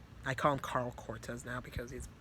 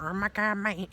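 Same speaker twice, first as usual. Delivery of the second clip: higher and louder, alarmed; panicked exclamation; 6 semitones higher, 5 dB louder than usual. Retold or imitated. Rivers Carl reacting to the story, alarmed. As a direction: burst out like a frightened mate.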